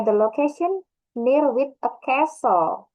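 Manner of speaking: The location near with a castle read slow and clear; example sentence read slowly. Shown as a demonstration. Teacher reading an example sentence, slow. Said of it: "Castle itu castle".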